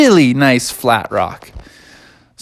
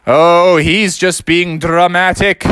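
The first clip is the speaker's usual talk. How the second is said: dismissive zookeeper; 5 semitones higher, 4 dB louder, slower than usual. Acted. Zookeeper dismisses raccoon's drama.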